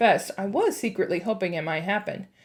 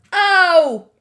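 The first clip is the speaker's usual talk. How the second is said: higher, louder startled yelp; 7 semitones higher, 11 dB louder than usual. A narrator's reading. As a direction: yelp as if jabbed. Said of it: "and he yelled".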